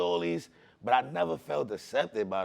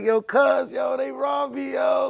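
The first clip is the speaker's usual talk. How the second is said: retold yell to his cousins, much louder; calling out; 11 semitones higher, 8 dB louder, slower than usual. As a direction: shout it across the house, upset. Calling cousins after being robbed.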